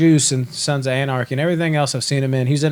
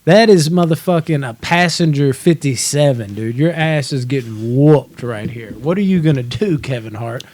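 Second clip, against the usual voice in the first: hyped trash talk; 4 dB louder than usual. Retold or imitated. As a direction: cheer on the big guy, taunting. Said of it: "you're like".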